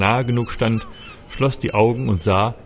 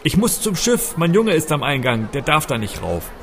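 high, urgent yell over the crowd; desperate shout; 6 semitones higher than usual. Acted. Narrator bellowing over the crowd for his boy, frantic. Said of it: "brüllte".

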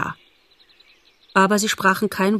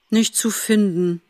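desperate outburst. A narrator's reading. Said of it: "stieß er verzweifelt hervor".

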